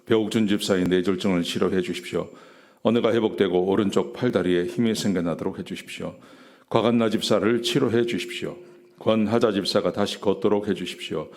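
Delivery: even, narrow-pitched praying voice; formal prayer in a measured, level cadence; intercessory prayer. Real, not acted. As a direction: pray steadily through a list of petitions. Leads prayer for the sick.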